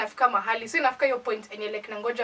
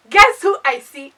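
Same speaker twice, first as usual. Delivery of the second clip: louder and slower, drawn out for suspense; loud slow teaser; 3 semitones higher, 15 dB louder than usual. Retold or imitated. Teasing her viewers before revealing the guy, loud and slow. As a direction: stretch it out to hook the audience.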